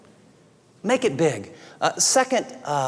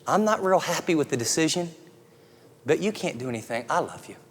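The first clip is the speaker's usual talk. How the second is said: tender reassurance; 4 dB quieter than usual. Pretend. Parent reassuring a child who failed, softly and tenderly. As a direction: say it gently, like a parent who still loves. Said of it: "They need to hear".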